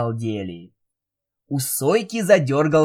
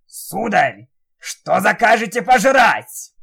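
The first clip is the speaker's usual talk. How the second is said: Jigurda voice; 7 semitones higher, 6 dB louder than usual. Acted. Magic head offers food.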